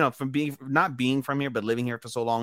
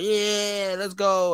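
lightly voiced fighter hyped up, high; a hint of B J Penn cheering; mock fighter hype; B J Penn impression; 9 semitones higher, much slower than usual. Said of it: "B J Penn impression".

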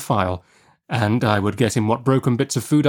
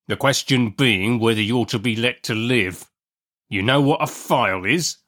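interrogating convict in rustic dialect; threatening convict's questioning; menacing convict. Acted.

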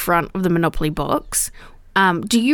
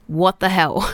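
ordinary talk, nothing marked

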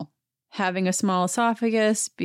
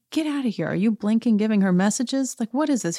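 higher-pitched incredulous reaction; retold exasperated questioning; mock disbelief; 4 semitones higher than usual. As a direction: react as if baffled by an intruder. Acts out own baffled reaction.

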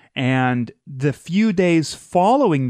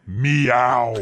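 mock meow; 3 semitones lower than usual. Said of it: "hearing someone go".

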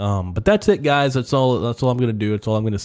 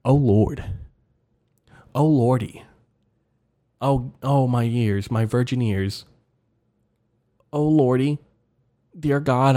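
lightly voiced pious old lady, softer and fretting; shocked churchgoer; 3 dB quieter than usual. Old acquaintances praying over crude podcast, a hint of scandalised piety. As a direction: clutch your pearls and pray for him. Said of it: "they'll be like".

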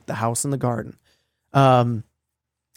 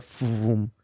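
soft imitated whoosh; whooshing vroom; 4 semitones lower, 7 dB quieter than usual. Describing the dark mass zipping off, soft vroom. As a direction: softly voice a quick vroom.

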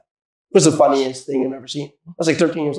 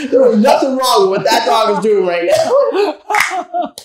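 mock bro defense; 7 semitones higher, slower than usual.

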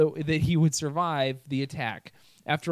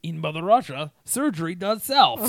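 put-on Russian accent; 3 dB louder than usual. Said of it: "I can't. ... you tried, but it was tough".

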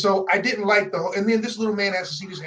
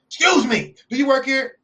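higher and louder, a mock indignant demand; imitating angry sister; 8 semitones higher, 7 dB louder than usual. Customer imitated demanding if he works there, mock angry. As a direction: play the annoyed customer confronting a worker. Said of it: "angry sister".

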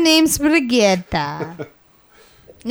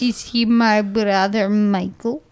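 put-on Russian-like accent; 5 semitones lower than usual. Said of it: "is that what they do in Russia?".

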